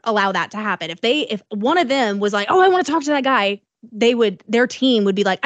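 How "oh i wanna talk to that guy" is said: higher, quick, lightly put-on eagerness; mock eager celebrity. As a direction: lightly mimic a star keen to go over.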